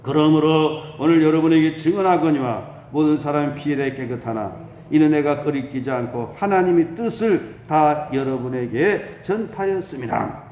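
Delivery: loud chanting-like reading held on one note; solemn scripture reading. Real, not acted. Pastor reading scripture aloud to the congregation, solemn proclamation. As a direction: proclaim the verse in a sustained level tone.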